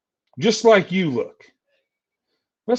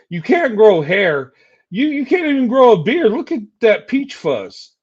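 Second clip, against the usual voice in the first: louder, jeering mockery; loud taunt; 3 semitones higher, 4 dB louder than usual. Real, not acted. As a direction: jeer at him loudly about his hair. Taunting rival about his looks.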